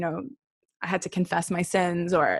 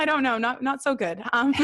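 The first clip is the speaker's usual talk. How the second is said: laughing; 6 semitones higher than usual. Real, not acted. Laughing at own failed plan.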